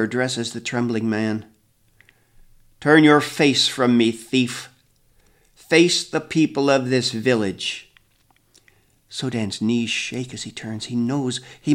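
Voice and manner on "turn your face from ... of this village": stern elder. A narrator's reading. Grandfather condemns the thief.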